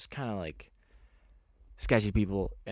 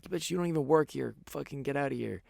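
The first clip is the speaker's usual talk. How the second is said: high, heated retort, louder at the start; retold angry retort; 7 semitones higher, 4 dB louder than usual. Telling off the girl who yelled at me, high retold retort. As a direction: snap back at her, pitched up.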